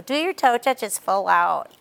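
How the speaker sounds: a slow, lightly whiny captain's nag. Retold or imitated. Coach mimicking a captain nagging the team, lightly whiny. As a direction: mimic the captain barely whining the order, slowly. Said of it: "kind of in that whiny voice".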